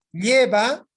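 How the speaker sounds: LLE in "Lleva" pushed loud and high; stress on penultimate. Shown as a demonstration. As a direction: say "Lleva" loudly, stressing the first syllable. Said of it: "palabra grave".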